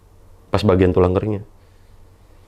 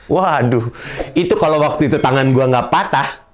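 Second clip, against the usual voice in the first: indignant rant; 5 semitones higher, 4 dB louder than usual. Real, not acted. Indignant outburst about the nurse.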